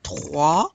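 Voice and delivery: "Trois" with a throaty wet R; gargled R after the T in "Trois"; wet French R. Shown as a demonstration. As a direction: rasp the R in "Trois". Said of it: "wet R".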